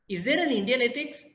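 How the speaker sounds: there stressed with a rising tune. Shown as a demonstration. Lecturer to students, stress on there. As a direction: lean on the word there. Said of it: "It's just stressed in different ways, at different words".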